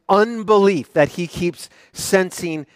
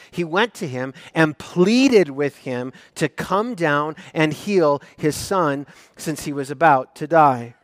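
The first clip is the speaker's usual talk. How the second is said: measured, deliberate Bible reading; scripture reading. Acted. Preacher reading the verses to his congregation, measured. Reads scripture passage aloud.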